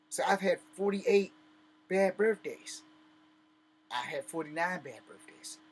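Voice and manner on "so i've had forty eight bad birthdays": louder, higher, venting the grievance; raised ranting voice. Real, not acted. To his family about his lost birthdays, raised and bitter. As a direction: push it out like a complaint that has built for years.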